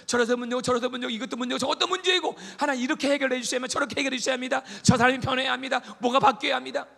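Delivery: high, loud, fast list of demands; demanding prayer. Retold or imitated. Believer loudly dictating fixes to God.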